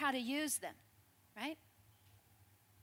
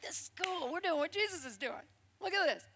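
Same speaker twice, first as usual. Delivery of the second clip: excited disciples; 4 semitones higher than usual. Retold or imitated. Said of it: "They come back all excited".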